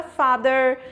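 American accent. Shown as a demonstration. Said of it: "no inglês americano vocês percebem que eles realmente forçam esse som do E R".

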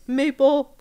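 high and loud, laughing through the name; goofy Seuss voice. Retold or imitated. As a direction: blurt the name in a silly high voice. Seuss mangles Mabel's name.

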